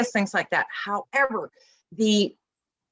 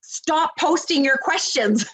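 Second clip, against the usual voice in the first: firm telling-off; 8 semitones higher, slower than usual. Retold or imitated. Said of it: "that's why I tell people".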